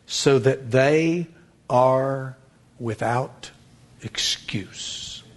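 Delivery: slow start, then fading into a whisper on excuse; scripture quote trailing off to a hush. Acted. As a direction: let the verse die away into a whisper. Quoting Paul, fading away.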